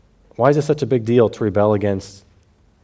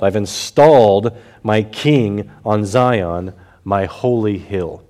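voicing the Lord; slower than usual. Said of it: "now he's quoting the Lord".

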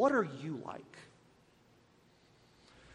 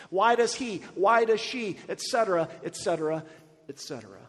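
jealous complaint to God; 5 dB louder than usual. Retold or imitated. Preacher retelling his jealous rant at God, rising to a loud mock outburst. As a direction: rant at God, getting louder each time. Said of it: "And I said".

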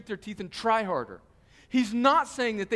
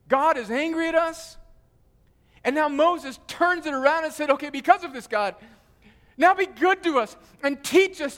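preaching. Acted. Pastor preaching Psalm ninety to the congregation, fervent. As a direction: preach it with full force to the congregation.

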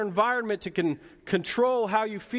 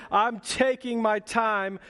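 higher, drawn-out imitation of a screamed lyric; mock scream; 4 semitones higher, slower than usual. Dad imitating his daughter in the backseat, mild mock scream. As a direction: mimic a kid belting it out, without really screaming. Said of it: "just screaming as loud as she can".

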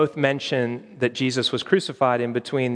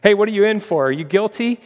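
loud, higher call across the courtyard; retold prison-yard shout; 7 semitones higher, 4 dB louder than usual. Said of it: "Red shouts across to another guy".

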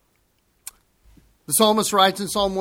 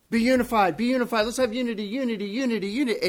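mocking syrupy; 3 semitones higher, much faster than usual. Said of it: "syrupy and yet meaningless talk".

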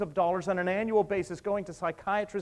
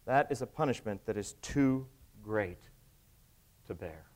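Cain's anguished plea; 7 semitones lower than usual. Acted. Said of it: "Cain cried back".

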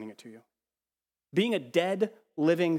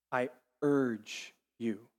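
slowed, softer "I urge you" with lingering urge; slow, tender plea; 2 semitones lower, 3 dB quieter, much slower than usual. Shown as a demonstration. Preacher repeating scripture to the congregation, tender plea. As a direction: lean in and plead gently on "urge".

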